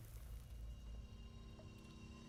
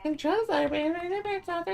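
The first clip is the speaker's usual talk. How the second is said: high, loud announcer read; mock announcer; 4 dB louder than usual. Gamer echoing the game prompt, mock announcer. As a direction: announce it like a cheesy system voice.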